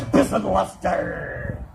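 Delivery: calling out her husband's name; hammed-up shout of the husband's name; mock shout. Wife hollering for her husband, mock shout.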